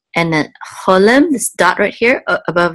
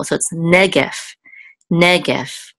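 negef said as NE-gef, the first syllable leaning heavier; stress on first syllable; slower than usual. Shown as a demonstration. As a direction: lean on the start of negef. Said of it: "the accent mark says, is on the first syllable".

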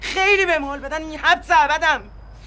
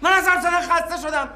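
angry refusal; 3 semitones higher than usual. Acted. Husband refuses to talk.

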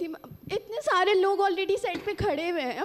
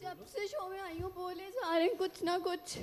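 tearful; 11 dB quieter than usual. Real, not acted.

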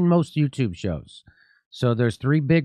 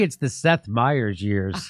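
deadpan; 3 semitones lower, slower than usual. Acted. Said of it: "You gotta say it with a straight face".

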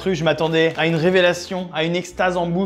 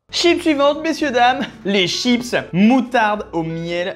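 showman announcement; 5 semitones higher, slower than usual. Acted. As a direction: present it like a game show host. Announcing next chips again.

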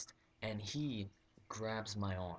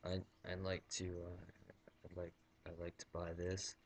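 softer, nervous halting request; awkward mumble; 2 semitones lower, 5 dB quieter than usual. Retold or imitated. Shy customer mumbling a purchase to the clerk. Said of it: "I was like this".

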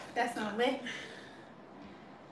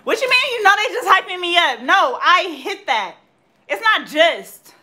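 higher, louder, slow insisting; high excited protest; 5 semitones higher, 5 dB louder than usual. Real, not acted. Dancer insists to friends she hit it, high slow insisting. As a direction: insist you nailed it.

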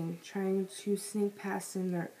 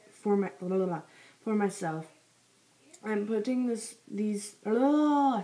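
chewing gum; 5 dB louder than usual. Real, not acted. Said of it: "I have gum in my mouth, so it's kinda hard to read".

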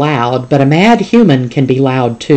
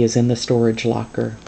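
quieter, giving in; 3 semitones lower, 5 dB quieter than usual. Acted. Father finally giving in to his daughter, softer. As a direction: say it softly, giving way. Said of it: "he says quietly".

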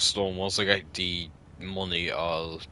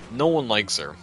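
emphatic; 5 dB louder than usual. Real, not acted. Emphatic drunk repeat.

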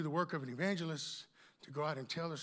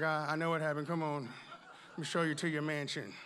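Jesus, lightly voiced. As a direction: lightly play a weary, welcoming host. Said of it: "You're like".

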